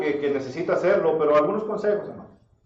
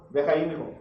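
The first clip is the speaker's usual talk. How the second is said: mock yell, higher at the end; parent raising voice; 3 semitones higher than usual. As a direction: imitate a parent snapping at a kid. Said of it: "Pensamos que al levantar la voz".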